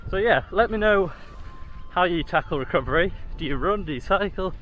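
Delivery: talking mid-run, steady stride; while jogging. Real, not acted. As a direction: speak while jogging along. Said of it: "going along pretty nicely now".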